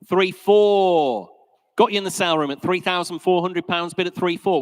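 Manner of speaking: brisk, rhythmic auctioneer calling bids. Real, not acted. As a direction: rattle off the bids to the room.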